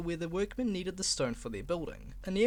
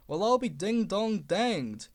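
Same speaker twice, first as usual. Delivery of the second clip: amazed exclamation; 3 semitones higher, 3 dB louder, slower than usual. Acted. Guard amazed.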